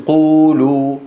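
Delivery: قولوا with a long drawn-out oo; madd letter waw. Shown as a demonstration. Teacher gives an example of waw after damma, long madd oo. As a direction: stretch the oo in قولوا slowly. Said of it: "هذا اسمه حرف مد ولين".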